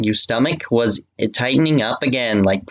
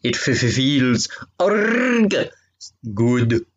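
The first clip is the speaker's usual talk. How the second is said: moaning lover voice; much slower than usual. Acted. Moaning character line in fanfic.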